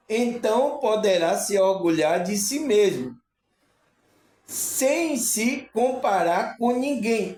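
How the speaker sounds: slowed quote. Retold or imitated. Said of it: "ele disse".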